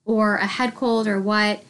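stuffy blocked-nose voice; congested. Real, not acted. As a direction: talk through a stuffy head cold. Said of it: "I sound a little congested".

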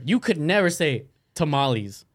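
slow, anglicized "tamales"; English pronunciation. Shown as a demonstration. Friend showing what you could never say, "tamales" anglicized. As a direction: say "tamales" with English vowels, stretched out. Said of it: "I almost said tamales in English".

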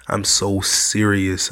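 slow, emphatic insistence; dead serious. Real, not acted. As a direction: draw it out to show you mean it. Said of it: "I'm serious".

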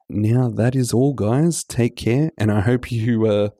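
hoarse sick voice; talking through a cold. Real, not acted. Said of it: "my sick voice".

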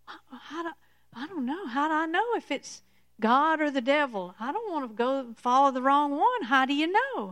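lightly voiced worried doubter; unsure believer.

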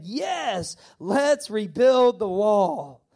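drawn-out, rising yes, then a slow rally; rallying cry. Retold or imitated. All the people answering Nehemiah, imitated rallying cry. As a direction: act out a crowd's emphatic agreement. Crowd's eager answer acted out.

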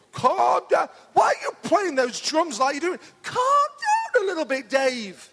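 mock Michael Winner, laughing through it; hammed-up "calm down" at the drummer; Michael Winner impression. Preacher teasing his drummer in a mock Michael Winner voice. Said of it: "the Michael Winner advert".

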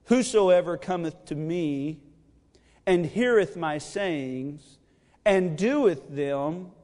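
slow, solemn reading of the verse; measured, reverent preaching voice; scripture reading. Acted. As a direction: read the words of Jesus with weight.

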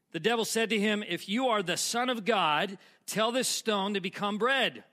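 emphatic, projected Bible reading; dramatic scripture reading. Acted. Preacher reading temptation of Jesus, emphatic. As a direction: read the passage out for the congregation.

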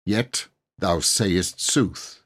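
slow, musing knight; thoughtfully. Acted. Knight concedes to the boy, thoughtfully. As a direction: weigh the words as you concede. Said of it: "he added thoughtfully".

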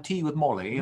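put-on tea with Molly in a playful British accent. Host playing at British tea talk, mock British accent. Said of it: "like, this British accent".

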